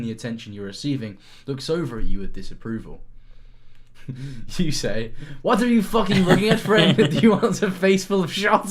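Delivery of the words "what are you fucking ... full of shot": high, loud menacing taunt; aggressive threat. Acted. Player threatening the hare barman, loud mock menace. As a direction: snarl it at the hare like a gunslinger.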